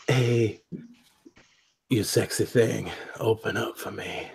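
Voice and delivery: soft, slow, playful seduction; mock sensual whisper. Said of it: "whispering it to it sensually".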